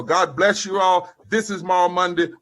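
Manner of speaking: high, loud preacher's fervor; preaching in the Spirit. Real, not acted. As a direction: let the Holy Ghost lift the voice. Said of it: "sometimes I speak in the Holy Ghost".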